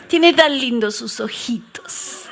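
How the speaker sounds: slow, swooning, half laughing; mock sweet-talk. Women charmed by a man's pretty words, mock swooning. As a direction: coo it slowly, playfully smitten. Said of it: "me habla lindo".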